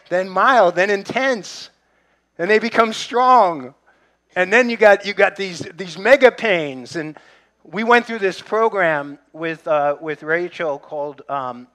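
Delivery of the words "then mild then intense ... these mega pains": preacher ramping up the intensity; building emphasis. Real, not acted. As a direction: build it up, each stage bigger. Escalating labor pains described.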